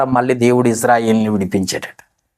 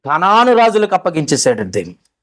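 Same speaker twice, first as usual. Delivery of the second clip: usual speaking voice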